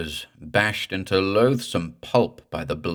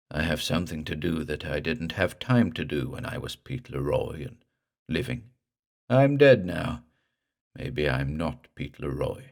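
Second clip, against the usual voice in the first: drowned ghost; 2 semitones lower than usual. Acted. Ghost explains mission.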